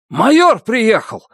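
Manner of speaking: high, slow alarmed call; shouted warning. A narrator's reading. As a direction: call out that the major is coming. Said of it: "крикнул кто-то".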